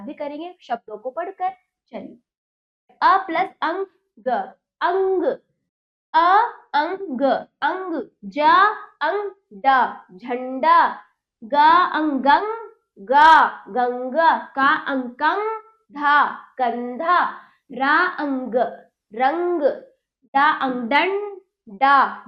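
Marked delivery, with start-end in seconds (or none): 3.0-19.6 slow, spelling-out teacher drill, then the whole word; a teacher drilling children in blending syllables into words. Shown as a demonstration. 20.3-22.2 syllables dragged out slowly, then blended; a teacher sounding out syllables for children to copy. Shown as a demonstration. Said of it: "मेरे साथ बोलिए".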